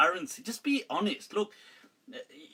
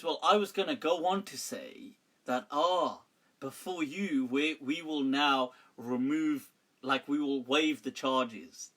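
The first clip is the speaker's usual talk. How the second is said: dramatic suspense; 4 semitones lower than usual. Retold or imitated. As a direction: imitate her stringing out the big reveal. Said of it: "trying to do this dramatically".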